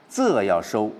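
仄 and 收 falling and cut back; drawn-in oblique tone. Shown as a demonstration. Teacher shows how oblique tones are reined in, falling 仄 and 收. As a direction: let 仄 drop, then close off 收.

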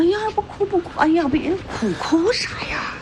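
hushed, coaxing comfort; calm her like a crying child; soothing. Acted. The old aunt comforts the crying girl, soothing.

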